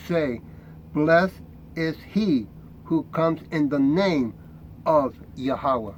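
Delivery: slow, measured reading of the verses; scripture reading. Acted. Preacher reading Jesus's words to the congregation, slow and solemn. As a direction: read the red letters slowly and solemnly.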